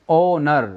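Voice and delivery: "ओनर" beginning on O, no H; silent H. Shown as a demonstration. Teacher quizzes students on the sound, "ओनर" with silent H. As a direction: demonstrate "ओनर" opening on its vowel. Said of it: "उच्चारण क्या आ रहा है".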